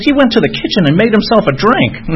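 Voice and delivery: mock scandalized, pitched right up; upset girlfriend. Hospice nurse girlfriend revealing the patient's drink, mock appalled. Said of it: "she was all upset".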